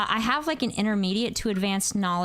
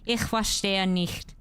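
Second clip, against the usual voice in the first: German phrase; slower than usual. Retold or imitated. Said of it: "I had to be like".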